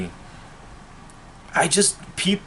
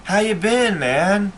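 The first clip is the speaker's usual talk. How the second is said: higher, lightly mocking fake-friendly voice; mocking fake buddy; 5 semitones higher than usual. Vlogger imitating former friends who want back in, mock-friendly voice. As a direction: imitate a phony old pal, sweet and hollow.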